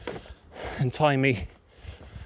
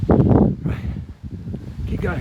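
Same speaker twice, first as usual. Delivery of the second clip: gasping for air; 4 semitones higher, much slower than usual. Real, not acted. Panting after the climb.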